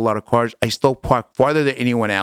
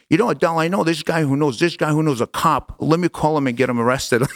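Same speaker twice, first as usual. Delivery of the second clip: higher-pitched, mildly hammed-up eager offer; pitched-up mock eagerness; eager brother; 5 semitones higher than usual. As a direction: imitate a brother rushing in to help. Acted brother excitedly offers help.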